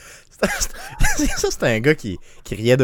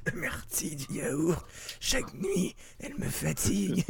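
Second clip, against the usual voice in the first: laughing slogan; 6 semitones higher, 13 dB quieter than usual. Pretend.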